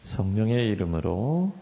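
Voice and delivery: slow, measured liturgical recitation; formal opening invocation; prayer. Real, not acted. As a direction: intone the blessing slowly. Recites sign of cross.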